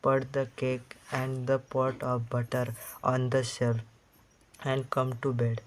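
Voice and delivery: muffled, as if under bedclothes. Acted. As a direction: speak muffled through a blanket. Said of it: "called on in the muffled voice".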